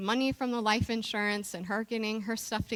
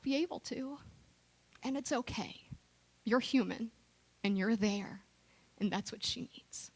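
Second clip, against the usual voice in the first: softer, tender reassurance to herself; gentle self-compassion; 3 dB quieter than usual. Retold or imitated. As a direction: speak to yourself kindly, hand over heart, trailing softer. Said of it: "put my hand over my heart and say".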